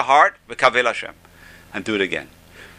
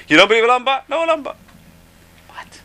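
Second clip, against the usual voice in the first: 1 rhetorical challenge; 12 semitones higher, 5 dB louder, faster than usual. Real, not acted. Emphatic rhetorical turn.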